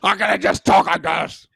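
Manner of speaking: hammed-up know-it-all American accent; bad American accent. Host imitating a foreigner insisting it's American, bad accent. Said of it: "That's your American accent".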